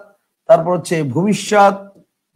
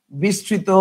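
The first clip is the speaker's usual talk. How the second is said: softer example; 6 dB quieter, much slower than usual. Shown as a demonstration. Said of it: "তাহলে খেয়াল করেন".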